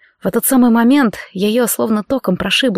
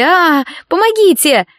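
calling for help; 7 semitones higher, slower than usual. Acted. Kathryn, carried by the professor, cries out for help. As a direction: call out for rescue.

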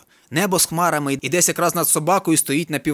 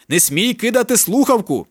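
shouted order; 6 semitones higher than usual. A narrator's reading. Friends shouting down phone.

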